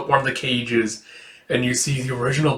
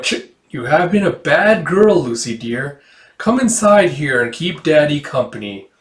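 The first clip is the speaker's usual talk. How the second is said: sinister demon; 2 semitones higher than usual. Acted. Demon unmasked taunting Lucy, sinister. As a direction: sneer it like a trap springing. Fake father turning demon.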